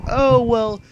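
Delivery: put-on high, bright girlish voice; high-pitched girl from the game; girl's voice. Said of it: "she's like".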